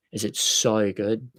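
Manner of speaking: slow Aussie drawl on "so"; put-on Australian accent, lingering on the O. Shown as a demonstration. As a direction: stretch "so" with an Australian O. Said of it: "Just 'cause I've got the O's down".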